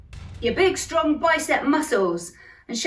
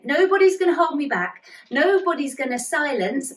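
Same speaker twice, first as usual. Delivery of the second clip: raised, defiant no; 4 semitones higher than usual. Shown as a demonstration. Teacher to kids, defiant nobody's gonna hold me back. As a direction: wag a finger, refuse firmly. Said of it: "wagging both fingers".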